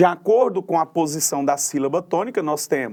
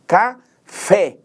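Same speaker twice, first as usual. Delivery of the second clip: "Café" split, loud and higher; stronger last syllable; 4 semitones higher, 6 dB louder than usual. Shown as a demonstration. Teacher recalling the example, forceful final stress on "Café". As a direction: punch out "Ca", then a strong "fé". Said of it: "pronunciada de maneira mais forte".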